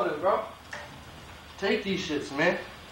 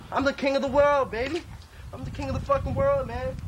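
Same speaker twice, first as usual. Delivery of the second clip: manic bravado; 6 semitones higher than usual. Acted. Homeless designer boasting to nobody about his city, manic. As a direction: crow like you own the place.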